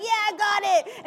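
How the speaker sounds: high, loud confident shout; excited reply. Retold or imitated. Runner slapping friends' hands, loud and high. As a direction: shout it back, pumped up. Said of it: "and like".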